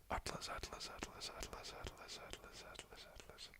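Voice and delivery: whispered repetition, dying away; fading whisper. Pretend. Streamer playing with the word for viewers, fading whisper.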